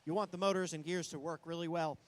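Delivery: fast, energetic match commentary; live play-by-play. Real, not acted. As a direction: call the action as it happens.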